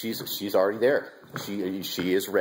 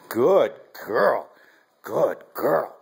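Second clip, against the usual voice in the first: high, loud sing-song praise for the puppy; dog praise; 4 semitones higher, 4 dB louder, much slower than usual. Real, not acted. Owner praising puppy Hunter after she sits, high excited praise. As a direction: gush over the puppy.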